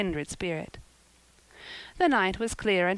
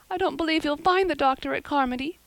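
put-on high, loud tearful girl; tearful girl fearing no doctor can come; sobbing; 8 semitones higher, 4 dB louder, faster than usual. A narrator's reading. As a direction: near tears, voice pitched up. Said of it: "sobbed Diana".

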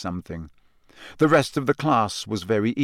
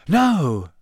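short; 6 semitones higher, 4 dB louder than usual. A narrator's reading. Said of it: "said Ron shortly".

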